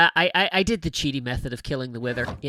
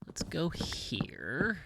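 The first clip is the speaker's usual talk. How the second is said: whisper; 4 semitones higher, 5 dB quieter, much slower than usual. Real, not acted. Quietly picking a route.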